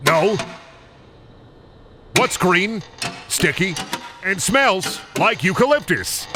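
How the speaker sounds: high cartoon riddle voice, slow on the last line; high goofy character. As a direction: pose the riddle in a squeaky voice. Fuseboxo telling riddle.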